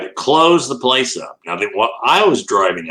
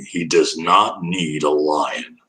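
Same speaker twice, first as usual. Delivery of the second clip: slow mock mother; 5 semitones lower, much slower than usual. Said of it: "his mother's looking at me".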